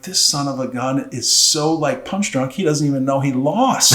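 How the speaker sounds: rising disbelief that builds to a shout; exasperated outburst. Retold or imitated. Coach at a match fuming about his grinning wrestler, building to a shout. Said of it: "And now I'm infuriated".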